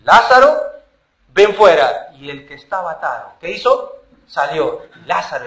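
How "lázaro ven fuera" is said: a firm call into the tomb, ringing out; the voice of Jesus calling the dead man out, with authority; strong, commanding summons. Acted. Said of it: "dejemos que Jesús entre".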